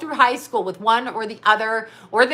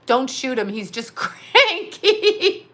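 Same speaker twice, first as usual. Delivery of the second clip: imitating John; much slower than usual. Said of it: "you can hear John tell the cops".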